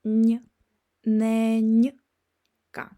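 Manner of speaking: stretched soft n before nenka; nenka, soft n drawn out and loud. Shown as a demonstration. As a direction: hold the soft n, then say nenka. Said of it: "so you can hear n".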